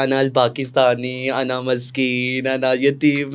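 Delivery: slow, pitiful broken Arabic; mock pitiful plea. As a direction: plead like a helpless orphan. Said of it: "तो मैंने उसको बोला".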